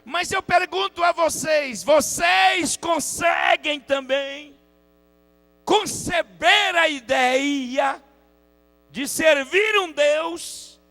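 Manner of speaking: high, slow pulpit challenge; full-force preaching. Real, not acted. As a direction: stretch each phrase out as a ringing question.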